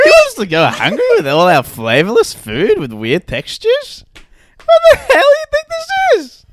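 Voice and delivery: high, loud hammed-up rant; mock outraged shout. Diner yelling about flavourless food, mock rage. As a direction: yell at the staff in fake fury.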